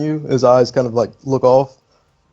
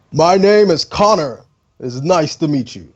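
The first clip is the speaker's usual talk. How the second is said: put-on drunk intro; 4 semitones higher, 3 dB louder than usual. Drunk NPC introduces himself.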